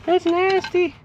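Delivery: high squeal of disgust. Real, not acted. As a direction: recoil from the grime, voice jumping way up. Grimy part pulled off car.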